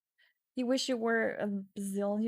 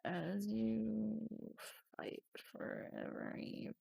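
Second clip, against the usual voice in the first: slow, much softer whisper; slow hushed dramatic whisper; panicked whisper; 9 dB quieter, much slower than usual. Acted. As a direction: breathe it out like you're choking. Dramatic reading of the panic scene.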